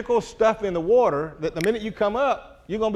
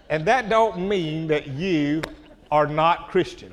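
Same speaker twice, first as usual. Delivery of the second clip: slow, chuckling through; laughing; slower than usual. Real, not acted. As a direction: laugh gently as you say it. After the crowd laughs.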